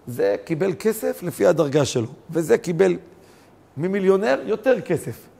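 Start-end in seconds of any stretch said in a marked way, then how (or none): none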